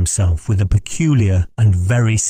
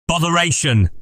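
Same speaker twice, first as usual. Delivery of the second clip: lightly acted vexed outburst; exclaiming; 9 semitones higher than usual. A narrator's reading. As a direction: exclaim it as a mild curse, pitched well up. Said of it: "cried Titus".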